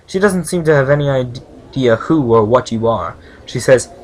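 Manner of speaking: game text read out clearly; story narration. A narrator's reading. Reads game narration aloud.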